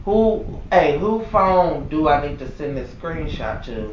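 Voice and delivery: low, hushed, measured; acted controlled complaint. Employee phoning corporate about the screenshot, quietly indignant. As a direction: drop the voice to a seriously restrained complaint. Acts out calm call to corporate.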